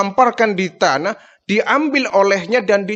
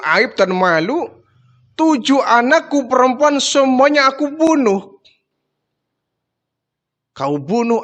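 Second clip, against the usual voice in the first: anguished confession; 4 semitones higher than usual. Acted. Dihya confessing killing his daughters.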